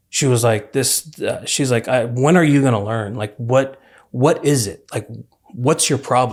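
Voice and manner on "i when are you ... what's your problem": put-on frustrated, disappointed and angry tone. Retelling a mother's words on a call about prison, imitating disappointed anger. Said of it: "you could hear it in my mom's voice ... the disappointment and, like, the, the frustration and the anger".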